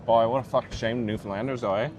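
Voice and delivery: put-on jokey Newfoundland accent; lightly hammed Newfoundland brogue; mock Newfie accent. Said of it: "my perfect Newfie accent".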